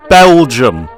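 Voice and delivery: Belgium! as a startled outburst; shocked exclamation. Real, not acted. Repeats news in shock.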